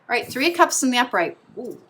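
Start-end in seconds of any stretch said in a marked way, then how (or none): 1.6-1.8 short wordless ooh of recognition; surprised ooh. Real, not acted. Tarot reader seeing the same card theme recur, surprised ooh. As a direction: let out a brief ooh. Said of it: "I'm making that noise".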